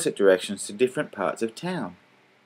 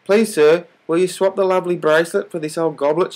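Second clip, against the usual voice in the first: put-on much higher, begging little girl; pleading child; 8 semitones higher, 4 dB louder than usual. A narrator's reading. Girl begging the salesman to swap, pleading. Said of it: "she pleaded".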